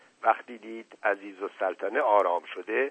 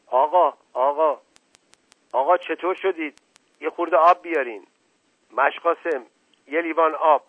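loud, higher urgent cries; alarmed calling; 6 semitones higher, 7 dB louder than usual. Acted. Household rushing to collapsed uncle, alarmed calls. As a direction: call for help in a panic.

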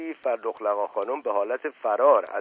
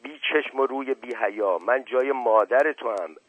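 muffled screaming; 2 semitones higher, 3 dB louder than usual. Acted. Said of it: "فریاد زن از گلویش".

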